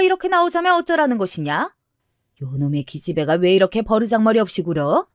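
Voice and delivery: scolding grandmother with swooping questions; indignant grandmother. Acted. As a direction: tell off a cheeky child as an old matriarch.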